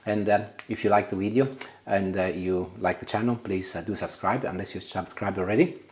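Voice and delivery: talking with mouth full. Real, not acted. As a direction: speak through a mouthful of food. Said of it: "Sorry, I'm talking with my mouth full".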